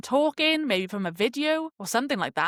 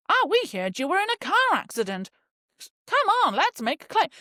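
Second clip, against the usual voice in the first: scam caller voice; 9 semitones higher than usual. Retold or imitated. Imitating a scam cold caller.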